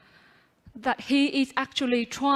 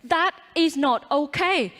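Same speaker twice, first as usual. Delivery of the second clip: calling out; 4 semitones higher, 4 dB louder than usual. Pretend. Imagined calling out to sister.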